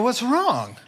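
high, loud, worried question; alarmed husband. Retold or imitated. Husband asking his sad wife, loudly alarmed.

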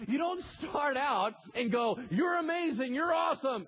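loud and high, shouting the point; shouted preaching. Acted. Pastor shouting what Peter should have said. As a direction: shout it at the congregation.

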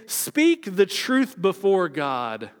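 slow, heavy warning; solemn command. Retold or imitated. Pharisees commanding the man to speak truthfully, slow and heavy. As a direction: lay each word down slowly like a warning.

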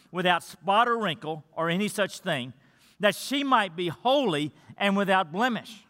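measured, formal Bible reading to the congregation; scripture reading. Acted. Reads the scripture passage aloud.

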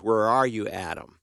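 brokenhearted God. Acted. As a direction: call out like a heartbroken father searching. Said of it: "That's the voice of a brokenhearted God".

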